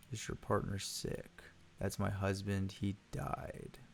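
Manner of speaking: lightly voiced exhausted widow, trailing off; weary widow. Exhausted widow visitor speaks.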